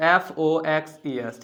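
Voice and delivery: slow spelling. Shown as a demonstration. Teacher spelling foxes for students, slowly. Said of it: "E S add कर दीजिए".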